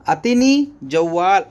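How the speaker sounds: normal talking voice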